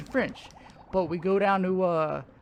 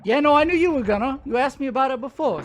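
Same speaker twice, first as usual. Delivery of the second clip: tag; 6 semitones higher, 5 dB louder than usual. Real, not acted. Eagerly agrees friend would ask.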